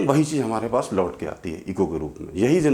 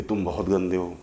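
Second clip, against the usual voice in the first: echo, softer; 3 semitones lower than usual. Acted. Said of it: "वही आवाज़ वापस लौट के आई".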